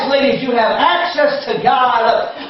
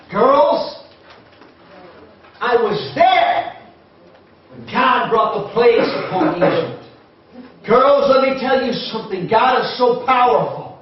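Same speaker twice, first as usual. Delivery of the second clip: lightly voiced father recalling the Exodus; a father urging his girls to remember; Zelophehad to his daughters. A lightly voiced father telling his daughters of God's power.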